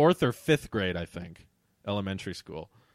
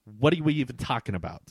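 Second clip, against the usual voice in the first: put-on mildly sassy entitled girl; lightly sassy retort; 4 dB louder than usual. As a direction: act out a touch of entitled sass. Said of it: "'cause it says sassy tone".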